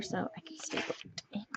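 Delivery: softly whispered aside while working. Real, not acted. Murmuring to viewers over her journal, whispered. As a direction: breathe it under the voice, no tone.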